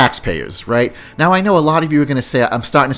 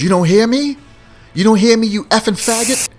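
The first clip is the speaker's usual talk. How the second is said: mock angry yell; 10 semitones higher than usual. Old man on the train yelling at commuter, hostile shout. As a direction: bark it at someone ignoring you. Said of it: "He goes".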